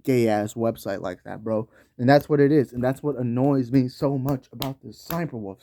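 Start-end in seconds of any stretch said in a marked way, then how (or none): 0.0-1.7 a lower, softer dismissive voice for YouTube; mock YouTube voice. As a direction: brush them off in a put-on low drone. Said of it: "the small creators are like".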